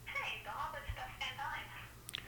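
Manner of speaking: thin phone line, far off; on speakerphone. Real, not acted. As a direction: caller through a speakerphone. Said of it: "Sounds like I'm on speakerphone".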